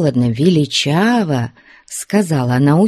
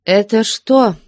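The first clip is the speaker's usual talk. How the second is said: even commanding; 7 semitones higher, 4 dB louder than usual. A narrator's reading. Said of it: "Ровным, невозмутимым голосом повелительно".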